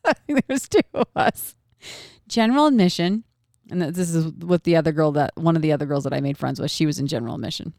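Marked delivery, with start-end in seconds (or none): 2.3-3.2 event host announcing. Retold or imitated. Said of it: "She goes".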